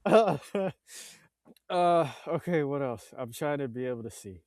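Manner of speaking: breathless after a laughing fit; catching breath after hard laughter. Real, not acted. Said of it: "I need to calm down".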